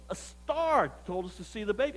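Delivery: measured, matter-of-fact statement; voiced visitor's earnest answer; plain-faced explanation. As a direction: offer it as a simple fact, a bit softly. Rich visitors explain why they came.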